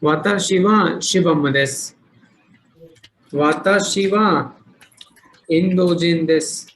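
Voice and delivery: slow, careful reading of वाताशी वा शिवम देस; slow model sentence. Shown as a demonstration. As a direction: read it out slowly for learners. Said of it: "hi, next".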